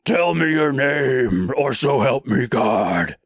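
slow, menacing vigilante growl; Batman. Acted. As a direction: threaten him like a dark superhero interrogator. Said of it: "goes full Batman on him".

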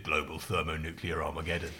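low, solemn pronouncement; know-it-all kid. Retold or imitated. Know-it-all kid scaring his friend, low solemn voice. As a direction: deliver doom like a smug expert. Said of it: "And he said".

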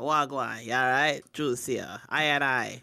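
acted laid-back street voice; street-slang greeting. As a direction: drop the pitch for a casual slang hello. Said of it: "if I walk up and I go".

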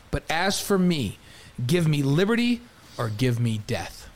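slow, declaimed speech; slow declaimed oratory; oratory reading. Shown as a demonstration. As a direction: deliver it like a famous orator. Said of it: "here we go".

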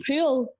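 "pool" with a fronted Northern Irish vowel, as in "pewl"; Northern Irish pronunciation. Shown as a demonstration. Creator shows a word viewers transcribe, "pool" pronounced "pewl". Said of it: "somebody will comment P E W L".

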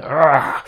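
muffled angry growl, held back; stifled growl of rage. Retold or imitated. A mother stifling her rage at a driver, muffled growl. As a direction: growl it out but keep it down. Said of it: "jeg var sådan".

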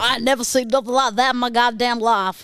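put-on copycat American accent; parroted American accent. Parroting the challenger, imitated American accent. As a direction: echo the mock American line straight back. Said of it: "the parroting is better".

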